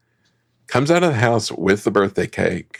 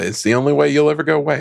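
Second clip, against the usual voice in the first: excited; 6 semitones higher, much faster than usual. Retold or imitated. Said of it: "he's very excited about it".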